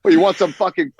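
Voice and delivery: slow, high, laughing bigot parody; mock bigot voice. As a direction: ham up a homophobe's sneer. Mocking a bigoted hunter voice.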